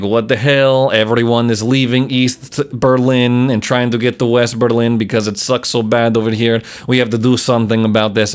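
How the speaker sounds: mock Russian accent, Soviet official. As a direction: put on a hammy Russian accent. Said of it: "I'm sorry about my Russian accent".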